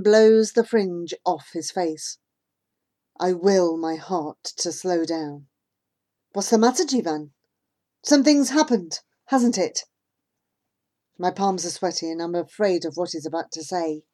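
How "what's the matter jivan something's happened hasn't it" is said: anxious question. Acted.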